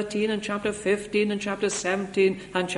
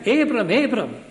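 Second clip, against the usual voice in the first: urgent call; 3 semitones higher, 4 dB louder than usual. A narrator's reading.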